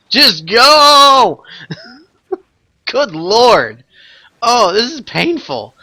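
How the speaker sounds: rising disbelieving shouts with laughter; escalating comedy rant. Real, not acted. Raid group pulling boss early.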